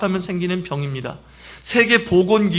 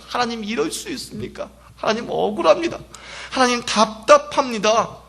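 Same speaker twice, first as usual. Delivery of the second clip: lightly voiced lament, a touch higher; mild anguished prayer; 4 semitones higher than usual. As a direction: plead with God in mild distress. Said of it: "주님께 통곡하며 격동되게".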